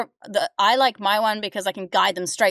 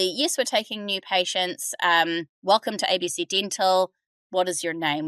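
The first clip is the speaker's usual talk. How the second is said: welcoming human receptionist script. Shown as a demonstration. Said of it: "Or the".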